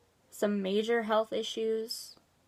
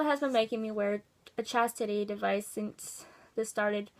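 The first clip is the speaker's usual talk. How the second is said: even, matter-of-fact read-aloud; reading a letter aloud. Acted. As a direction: read out someone's written account, plainly. Reads out a submitted letter.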